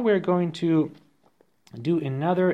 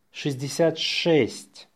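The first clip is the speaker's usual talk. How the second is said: natural-speed dictation; faster. Shown as a demonstration. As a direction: run the number together briskly.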